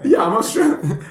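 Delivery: playful Australian accent impression; mock Australian accent. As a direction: put on a hammed-up Australian accent. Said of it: "They don't understand my accent".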